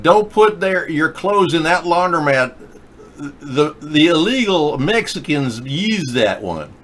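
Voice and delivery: loud mock Southern accent, high and brash; loud southern woman. Loud Southern woman warning people in the laundromat. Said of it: "and real loud".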